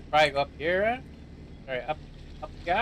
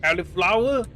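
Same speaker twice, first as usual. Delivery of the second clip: mock British accent; 3 semitones higher, 4 dB louder than usual. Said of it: "how it was pronounced with my accent".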